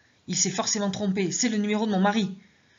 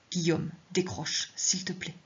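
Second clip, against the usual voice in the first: desperate silent plea; 5 dB quieter, slower than usual. Acted. Silent plea while phone rings.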